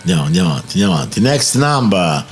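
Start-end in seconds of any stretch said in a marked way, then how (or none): 1.2-2.2 announcer. Acted. Tombola caller, slow announcement.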